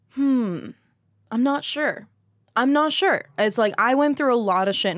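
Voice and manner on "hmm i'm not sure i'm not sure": high-pitched, acted-out hesitation; voicing her own unsure thoughts; retold doubtful musing. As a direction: mull it over in a higher voice. Retelling her own doubtful thinking.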